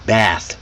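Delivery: "Bath" with an open front A, as in "cat"; American short A. Shown as a demonstration. Teacher explains the jaw drop, short A in "Bath". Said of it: "You drop your jaw".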